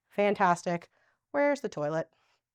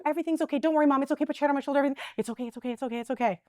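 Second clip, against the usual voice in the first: mock soothing; 4 semitones higher, much faster than usual. Shown as a demonstration. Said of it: "That's what we try to do".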